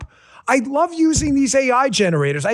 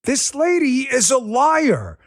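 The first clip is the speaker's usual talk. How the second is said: slow angry shout; slower than usual. Real, not acted. Angry host calling out a clip.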